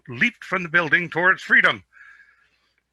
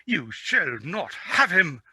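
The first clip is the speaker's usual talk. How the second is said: spoiled prince insisting; 4 semitones higher, slower than usual. Acted.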